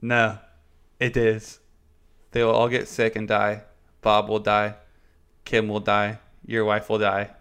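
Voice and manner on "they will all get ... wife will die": put-on lightly done Irish accent, ominous; a hint of Irish lilt, grim warning. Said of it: "went into my Irish accent there for a second".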